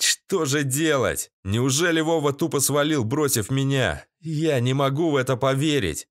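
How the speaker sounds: usual speaking voice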